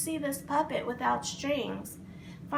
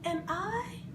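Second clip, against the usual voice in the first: excited; 6 semitones higher, 3 dB quieter, slower than usual. A narrator's reading. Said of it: "with excitement in his, uh, voice".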